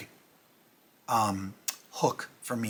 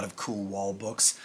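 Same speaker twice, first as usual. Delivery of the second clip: whisper; 4 semitones lower, 6 dB quieter, slower than usual. Real, not acted. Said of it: "unvoiced whisper".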